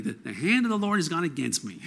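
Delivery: sung-up Jewish intonation, high on hand. Shown as a demonstration. Preacher redoing Naomi's line with Jewish intonation. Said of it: "If I had more of a Jewish intonation".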